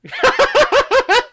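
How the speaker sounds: loud, very high burst of laughter; high cackle. Real, not acted. Host cracking up at the film, high loud cackle.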